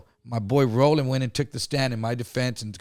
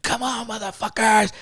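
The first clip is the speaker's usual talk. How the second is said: higher-pitched, drawn-out dare; mock taunting challenge; 9 semitones higher than usual. Attacker daring the group before macing them, mock taunting. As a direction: imitate a challenger egging everyone on.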